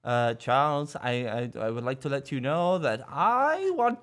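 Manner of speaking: imitating a kid's old British man voice, lightly. Parent mimics youngest child talking like an old British man. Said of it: "she talks like an old British man".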